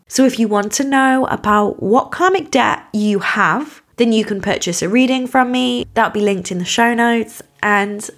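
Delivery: hoarse, croaky throat. Real, not acted. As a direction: speak through a croaky, sore voice. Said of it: "putting up with my croaky voice today".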